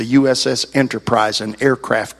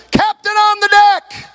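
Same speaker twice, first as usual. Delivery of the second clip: booming, drawn-out, much higher naval call; shouted command; 4 dB louder, slower than usual. Retold or imitated. Bosun's mate announcing the captain on deck, full-throated shout. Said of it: "And he shouted".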